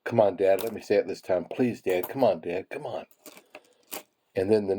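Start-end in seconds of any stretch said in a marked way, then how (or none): 0.0-3.1 understated little cactus begging Dad; mild pleading. Retold or imitated. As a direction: lightly coax Dad, close to your own voice. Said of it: "the smaller cactus said to the bigger cactus".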